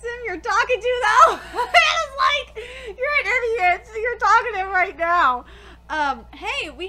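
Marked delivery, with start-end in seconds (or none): 1.1-1.5 laughing out high and loud; can't hold back the laugh; burst of laughter. Real, not acted. Reader laughs at the scene. 2.1-5.4 high, loud disbelieving shout; exasperated yelling. Real, not acted. Reader yells at the character.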